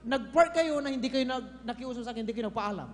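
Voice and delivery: mock furious owner telling them off; angry owner. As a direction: scold like an angry property owner. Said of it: "Galit na galit siya".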